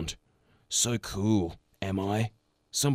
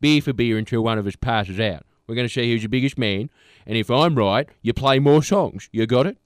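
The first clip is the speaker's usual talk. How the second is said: tough challenger voice; 4 dB louder than usual. Retold or imitated. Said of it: "He should be like".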